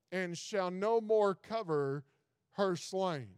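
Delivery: measured, solemn reading of the verses; scripture reading. Acted. Pastor reads Isaiah to his congregation, solemn and measured. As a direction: read the old words steadily, letting each phrase land.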